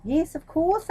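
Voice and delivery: high, loud eager yes; eager agreement. Acted. Courtiers hastily agreeing with the thieves, eager and loud. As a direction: jump in to agree.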